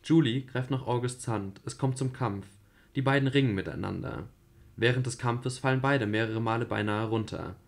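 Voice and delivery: even, level narrator reading; radio play narration. A narrator's reading. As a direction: read the directions plainly. Reads stage directions. (ruhige Erzählerstimme)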